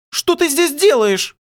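high slow outraged cry, stress on ты; shouted at him. Acted. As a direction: yell it at him from the doorway. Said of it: "выкрикнула она".

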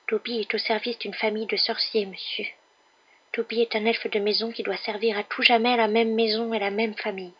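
high small servant voice; house-elf, servile. Acted. Elf explaining lifelong service, high dutiful voice.

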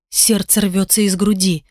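usual speaking voice

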